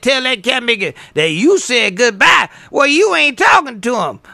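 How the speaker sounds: hammed-up shouted message; imitated blunt shout. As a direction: bark it like the rude caller did. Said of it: "If I say it like you said".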